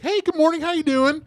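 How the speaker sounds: white voice. Retold or imitated. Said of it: "Oh, your white voice".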